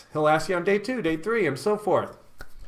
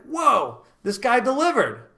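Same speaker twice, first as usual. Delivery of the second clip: mock impressed woman; 6 semitones higher than usual. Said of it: "she's gonna be like".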